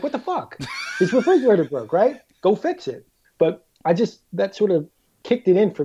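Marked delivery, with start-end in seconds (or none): 0.0-3.1 mock outraged yell. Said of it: "You're like".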